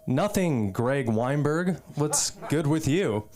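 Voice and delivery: slow, deliberate mock-awkward reply; awkward echo. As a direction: draw out the name and answer uneasily. Deadpan reply to friend's slang.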